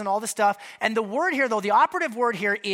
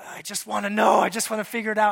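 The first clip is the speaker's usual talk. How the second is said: mock frustration; 3 semitones higher, 4 dB louder, faster than usual. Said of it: "so frustrated".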